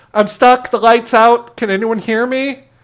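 high-pitched, loud, panicked yelling cries.

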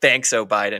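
mock, imitated sarcastic tone. Explaining a joke people use about high gas prices: imitating a sarcastic complaint. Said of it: "when sarcastically".

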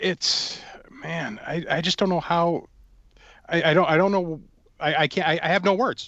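stumbling, halting false starts, stammering, lost for words. Reacting to collectible figures arriving damaged in shipping: stammering. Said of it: "You can hear me stammering".

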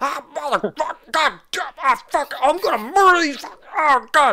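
very high-pitched stream of cursing and swearing. Narrating a game, voicing a gunman heard from the other room, cursing up a storm. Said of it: "you hear him cussing up a storm".

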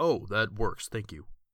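big, deep, loud put-on character voice. Voicing a character who takes the walkie-talkie: deep character voice. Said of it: "his voice is so deep".

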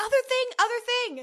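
urgent, shrill, very loud, high alarmed shout. A player's character spots a second thing approaching and shouts a warning. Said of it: "I'm gonna shout at the others".

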